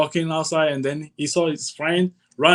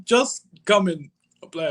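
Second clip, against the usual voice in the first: high, light caller voice; imitating the caller; 8 semitones higher than usual. Retells callers' invitation.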